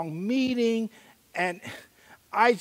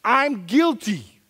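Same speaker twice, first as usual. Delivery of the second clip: earnest confession; 3 semitones higher, 3 dB louder than usual. Retold or imitated. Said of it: "and I said".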